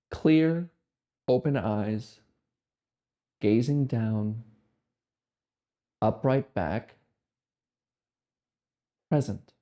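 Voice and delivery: slow, spaced-out meditation cues; guided meditation. Real, not acted. Guiding listeners to just sit, guided meditation voice. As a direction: leave long silences between short, calm instructions.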